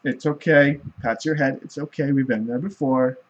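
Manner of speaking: lightly voiced, soft and calm; soothing god. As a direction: comfort a crying drunk. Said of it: "The god's like".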